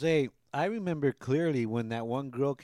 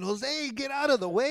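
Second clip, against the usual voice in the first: yelling at the TV; 9 semitones higher, slower than usual. Retold or imitated. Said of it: "I was talking to the television".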